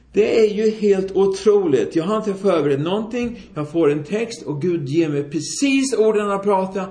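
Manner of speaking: acted self-impressed evangelist in full flow; big evangelist fervour. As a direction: preach as if carried away by your own words. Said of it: "ta ner vo-, rösten lite grann".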